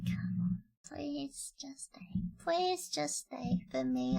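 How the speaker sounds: soft, slow cute pleading. Pretend. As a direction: ask sweetly and slowly. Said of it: "I'm asking nicely in a cute voice".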